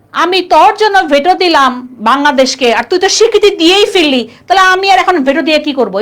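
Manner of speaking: mildly protesting imagined quote; China talking back. Retold or imitated. China tells Pakistan its veto is pointless, mildly protesting. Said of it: "তো চীন কয় যে".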